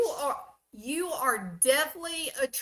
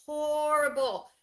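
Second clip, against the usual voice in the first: mock horror; 5 semitones higher than usual. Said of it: "you wanna go".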